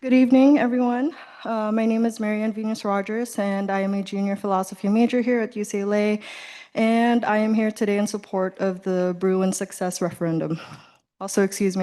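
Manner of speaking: breathless after sprinting over; out of breath. Real, not acted. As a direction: speak winded, still catching breath. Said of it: "I'm kind of out of breath".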